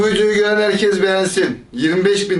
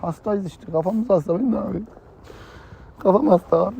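higher-pitched put-on whine; whiny, tearful complaint; 3 semitones higher, 3 dB quieter than usual. Fake patient excuses himself to his minder, whining. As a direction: plead sickness as if about to cry. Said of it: "Tamam, ağlama".

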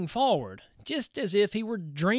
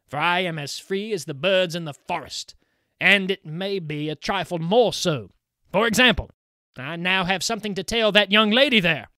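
louder, rising boast of a free spirit; loud boastful spirit; 5 dB louder than usual. Acted. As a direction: brag to the young bride, louder as it goes. Kuhleborn boasts, then teases.

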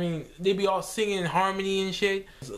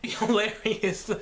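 whispered laugh; 2 semitones higher, slower than usual. Real, not acted.

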